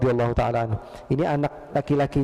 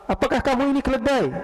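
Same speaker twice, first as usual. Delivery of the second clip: angry insult; 9 semitones higher than usual. Retold or imitated.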